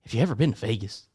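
low, understated coach pitch; lightly put-on recruiter, setting up a sell; recruiting coach. Coach asking the recruit about Vegas, low-key mock pitch. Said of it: "like, the recruiting pitch".

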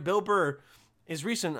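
ordinary delivery

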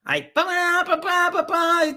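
high imitated trumpet blasts; trumpet fanfare. Trumpets sound for the king, imitated high. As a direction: sing out the fanfare.

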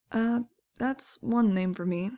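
slow, hesitant and awkward. Acted. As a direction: drag it out, unsure how to take it. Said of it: "I said awkwardly".

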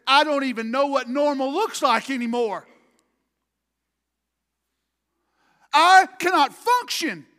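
high, shouted breakdown, building in force; desperate outcry. Retold or imitated. Preacher acting David unable to function, high desperate shout. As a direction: shout it out, hitting the last phrase hardest.

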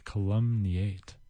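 sleepy. Pretend. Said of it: "putting me to sleep".

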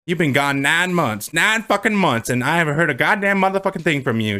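lightly hammed-up scolding; sassy. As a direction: play an indignant wife telling off her husband. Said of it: "She's been really sassy".

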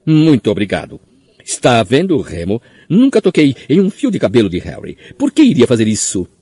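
high, eager, nervous squeak; cling to the excuse, squeaking; shrill squeaky voice. A narrator's reading. Pettigrew eagerly seizes on defence.

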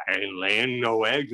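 mock British hen-house line; British accent. Retelling the weird hen-house line, mock British accent. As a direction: put on a slow British accent. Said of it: "doing a British accent".

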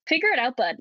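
put-on rural Alberta accent. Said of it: "rural Alberta".

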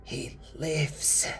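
high, choked proclamation, near tears; sobbing. Acted. Old woman announcing her grandson lives, sobbing. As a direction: sob the news out. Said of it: "proclamation came out as a sob".

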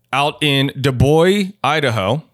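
ordinary talk

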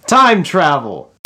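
loud and slow, high; loud slow announcement. Pretend. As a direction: boom it out slowly. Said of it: "say Garcia in a really weird way".

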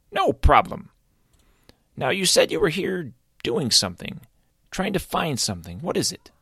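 high, cheerful creature voice; friendly creature. Acted. Azrael introducing himself to Caleb, high and cheerful. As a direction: introduce yourself up high and bright.

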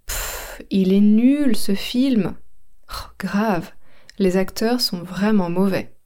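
fed-up dismissive tone; scornful repeat. Shown as a demonstration. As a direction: repeat the sneer at the film. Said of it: "Je répète".

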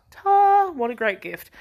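a sharp, high mock "Ta!"; loud, high sarcastic thanks. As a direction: throw out a sarcastic little thank-you.

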